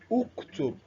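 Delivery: "Uktub" opening on a short u sound; dhamma pronunciation. Shown as a demonstration. Teacher shows how the alif is vowelized, dhamma pronunciation. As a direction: say "Uktub" slowly with an initial u vowel. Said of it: "you vowelize the Alif al-Wasli".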